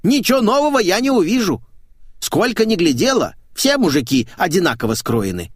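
high loud common woman voice; brash maid. Acted. Maid teasing her naked employer, cheeky and loud. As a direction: play a cheeky brash housemaid.

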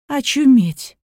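exclaiming, losing composure. Acted. Daughter exploding at mother's suitor, outraged cry. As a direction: burst out in disbelief. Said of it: "не выдержала спокойного тона Екатерина".

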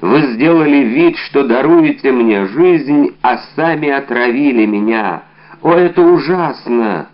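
громче и выше, обличая отравителя; бросить обвинение в лицо из последних сил; отчаянное обвинение. Acted. Умирающий обвиняет Д'Артаньяна. (умирающий солдат в отчаянии обвиняет Д'Артаньяна)

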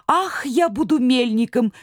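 high, delighted cry; excited exclaim. Acted. Чумилка exclaims to brothers, lightly excited. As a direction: announce it with glee. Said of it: "воскликнул Чумилка-ведун".

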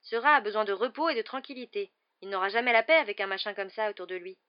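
indignant. A narrator's reading. Boy to friend about his frightened rat, indignant. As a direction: argue hotly on behalf of a pet. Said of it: "s'indigna Ron".

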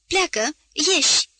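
sharp rising order to get out; landlady dismissing a servant, angry; angry outburst. Acted.

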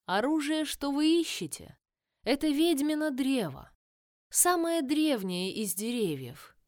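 lightly voiced tree crone; ancient dryad. Dryad voice, held.

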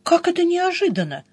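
high-pitched indignant question; affronted, pitch held high. A narrator's reading. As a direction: throw it back in indignation. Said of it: "возмутилась я".

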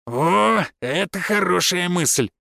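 slow, savouring exclamation; pleased approval. A narrator's reading. Finn welcomes his wife's idea of eating first, pleased. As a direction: relish the suggestion, stretching the words.

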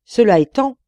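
booming loud threat; terrible genie voice. A narrator's reading. Old giant genie threatening the merchant, loud terrible voice.

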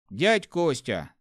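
slow, strained call. Acted. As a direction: squeeze the words out. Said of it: "сдавленно произнёс Алёшка".

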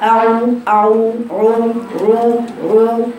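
عو drawn out slow and thick, almost like رو; wrong heavy ain demo. Shown as a demonstration. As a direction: imitate the heavy darkened عو slowly. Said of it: "بعض الناس تقرأها هكذا".

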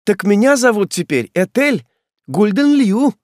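high, loud joyful cry; childlike joy. A narrator's reading. Ethel rejoices at her new name, childlike joy. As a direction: burst out with a child's delight. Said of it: "с детской радостью".

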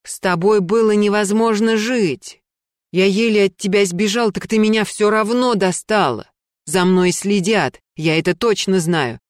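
loud frantic accusations; angry shouting man. Acted. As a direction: shout her down, paranoid. Гера орёт на Лену.

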